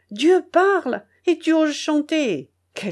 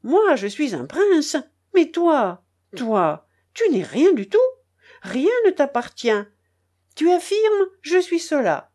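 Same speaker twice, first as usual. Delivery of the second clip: angry harangue; 3 semitones higher than usual. Acted. Charcot harangues the narrator in the rain, indignant and raised. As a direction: pour out all his pent-up resentment. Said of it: "me demanda-t-il avec colère".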